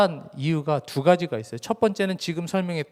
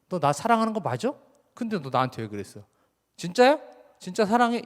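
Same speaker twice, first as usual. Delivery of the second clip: mock cross-examination, not fully earnest; interrogating Jesus; 2 semitones higher than usual. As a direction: demand an answer like an accuser, half-acted. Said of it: "이렇게 물어보시려고 세 번을 물어보신 게 아니고".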